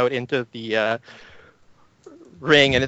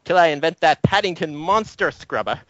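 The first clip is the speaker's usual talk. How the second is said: higher, bossy rambling; bossy professor; 4 semitones higher than usual. Acted. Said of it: "He says".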